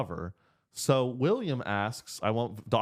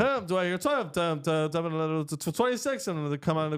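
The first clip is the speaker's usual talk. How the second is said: quick rhythmic auction chant, a bit higher; auctioneer voice; 4 semitones higher than usual. Retold or imitated. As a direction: rattle off bids like an auctioneer. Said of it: "it's almost like an auctioneer voice".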